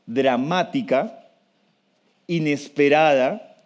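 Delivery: word by word, long pauses between phrases; slow, deliberate. Shown as a demonstration. Lecturer to audience, so all become aware, slowly. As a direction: spell it out slowly so it sinks in. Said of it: "Voy a decirlo despacio".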